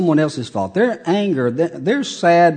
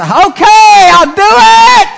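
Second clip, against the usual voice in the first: high, loud giving-in voice; worn-down yes; 10 dB louder, slower than usual. Acted. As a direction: cave in with a high exasperated shout. Preacher voicing worn-down husband.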